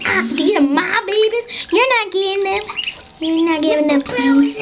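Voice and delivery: a touch of mock indignation; possessive duck. Voicing Peeps claiming the babies, mildly possessive. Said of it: "He's like".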